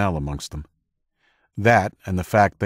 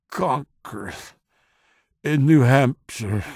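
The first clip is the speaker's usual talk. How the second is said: higher, trembling broken answer; shuddering exhausted confession; 7 semitones higher, 4 dB louder, slower than usual. Acted. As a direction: barely hold together as you confess. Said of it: "in a shuddering, exhausted voice".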